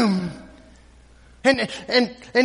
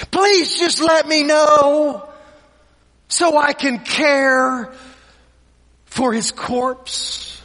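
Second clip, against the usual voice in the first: fading plea; 3 semitones higher, slower than usual. Retold or imitated. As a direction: plead slowly, then let it die away. Mary's tearful plea fading.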